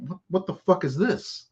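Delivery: high, incredulous what-the-hell; mock outrage at the wrong order in the bag; hammed-up disbelief. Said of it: "And I get home and I'm like".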